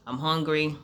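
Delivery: talking while munching chips; crunching chips. Real, not acted. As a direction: talk round a mouthful of chips. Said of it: "I'm eating chips".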